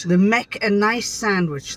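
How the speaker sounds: broad Yorkshire, "make" said as "mek"; Yorkshire dialect. Shown as a demonstration. Wife demonstrates for the Yankees, broad Yorkshire. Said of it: "that's Yorkshire".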